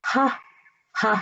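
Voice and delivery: हा said as a breathy h sound; h sound demo. Shown as a demonstration. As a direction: sound out हा clearly. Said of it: "इसकी आवाज जो है वो भी ह जैसी है". (ह की आवाज़ साफ़ बोलकर)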